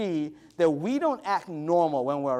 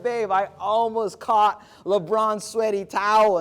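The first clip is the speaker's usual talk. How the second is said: slower, higher and louder, bursting with the news; excited phone call; 4 semitones higher, 3 dB louder than usual. Retold or imitated. Telling his wife about the towel, excitedly. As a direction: gush to your wife over the phone.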